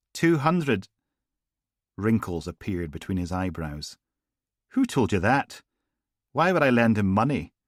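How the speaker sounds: feigned shock at the sum; gangster's surprise. Acted. Gangster caught off guard by Logan, surprised.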